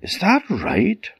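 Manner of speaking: high, slow, teasing tone; sly cat voice. A narrator's reading. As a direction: lead the ogre on slyly. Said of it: "said Puss".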